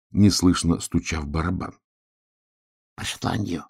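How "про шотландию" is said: softer, barely voiced words; near-silent answer; mouthed. A narrator's reading. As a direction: mouth it with lips only. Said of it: "— одними губами сказал ёжик".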